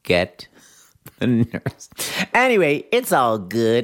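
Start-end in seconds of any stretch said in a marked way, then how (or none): 0.0-1.9 whispered call for the nurse. Retold or imitated. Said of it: "Whitney's imitation of it".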